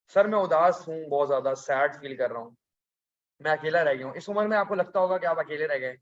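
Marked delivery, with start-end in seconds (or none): 0.1-4.1 mock sad student. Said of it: "ऐसे personal problems मत लिखिए".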